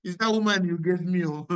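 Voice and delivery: hammed-up whiny excuse; whining Adam. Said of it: "he said".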